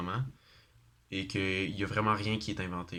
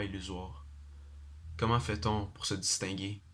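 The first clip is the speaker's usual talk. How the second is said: measured recital with pauses between lines; poem recitation. Acted. Student presenting their own poem to an audience, measured poem recitation. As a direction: recite your own verse, letting each short phrase stand apart.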